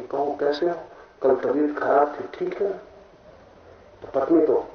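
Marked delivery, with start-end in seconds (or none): 0.0-2.8 softer, caring inquiry; gentle imitated greeting. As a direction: ask tenderly after someone's health, as retold. Man greeting his plants, voiced. (हालचाल पूछने की नरम नकल)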